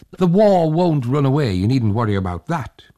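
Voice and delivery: put-on high, fussing old man's voice; a fussing host pressing hospitality; old Tag, eager host. A narrator's reading. Old Tag urges the hussars inside, high and eager.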